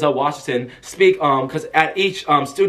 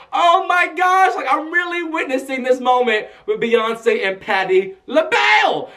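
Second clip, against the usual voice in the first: high-pitched fangirl cry, drawn-out start; starstruck; 7 semitones higher than usual. Retold or imitated. Fan witnessing two singers' moment, starstruck squeal. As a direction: shriek with disbelief, ending high.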